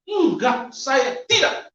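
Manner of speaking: firm refusal. Retold or imitated. Refusing to return to Islam.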